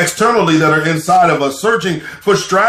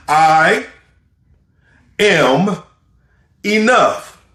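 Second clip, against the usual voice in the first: "I am enough" word by word, pausing between each word; slow spaced affirmation; much slower than usual. Shown as a demonstration. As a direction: let each word land before the next. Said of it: "Repeat after me".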